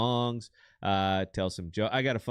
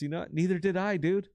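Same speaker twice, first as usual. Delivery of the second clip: a dopey talking dog, much higher and slowing down at the end; punchline voice for the dog; 9 semitones higher than usual. Pretend. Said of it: "the dog looks back and says".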